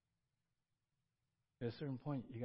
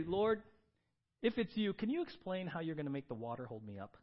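mock doubtful Peter; 3 semitones higher, 4 dB louder than usual. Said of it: "Peter didn't say".

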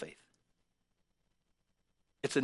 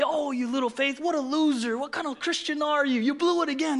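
hammed-up harsh put-down; mock a sneering critic; mock scolding; 7 semitones higher than usual. Imagined harsh Jesus mocking Peter, mild mock contempt. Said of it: "slammed him and say".

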